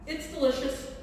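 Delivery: talking through a bite of soda bread; mouth full. Real, not acted. Tasting her soda bread on camera, talking with her mouth full. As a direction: chew and speak at once. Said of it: "I'm talking with my mouth full".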